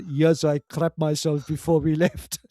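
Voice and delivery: slow, matter-of-fact partner; lightly voiced, unbothered partner; mock deadpan reply. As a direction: answer sweetly as if it's nothing.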